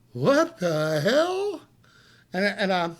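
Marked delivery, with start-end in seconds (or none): 0.1-1.6 very slow, drawn out; stunned disbelief. Retold or imitated. Man seeing a trail of his own blood, slow stunned disbelief. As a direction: let it sink in slowly. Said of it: "And I'm going".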